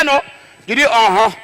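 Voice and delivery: usual speaking voice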